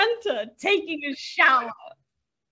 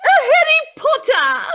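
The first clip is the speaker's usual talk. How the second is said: quavering punchline; 5 semitones higher than usual. Acted. Joke punchline, quavering delivery.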